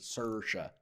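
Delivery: "Saoirse" as SUR-sha with a hard R; Irish-style "Saoirse", rhotic SUR-sha. Retold or imitated. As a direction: lean on the R in "Saoirse". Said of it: "that's how she always says".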